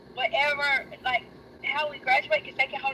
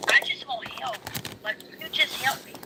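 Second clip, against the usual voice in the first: desperate plea; 4 semitones higher than usual. Retold or imitated. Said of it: "I was like".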